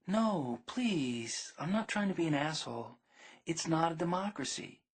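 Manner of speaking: a hint of a gentle, pleading girlfriend; gently. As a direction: soften it, no offence meant. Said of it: "really gently".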